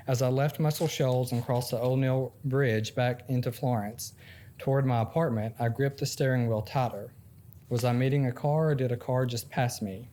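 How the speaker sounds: measured first-person story narration; memoir reading. Acted. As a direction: read it out as written prose, phrase by phrase. Reads a memoir excerpt aloud.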